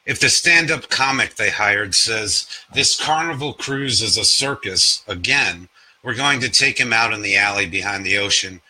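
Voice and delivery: measured, deliberate poem reading; poetry reading. Acted. Reads a poem.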